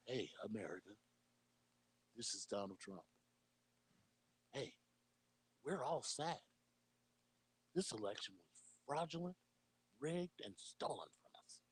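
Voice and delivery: a hushed, lightly voiced Trump sending his fans home; Donald Trump impression. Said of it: "It's amazing how much you sound and look like him".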